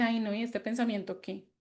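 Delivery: calmly brushing off a negative thought; dismissive self-talk. Retold or imitated. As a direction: shrug off the thought lightly. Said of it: "si usted le dice".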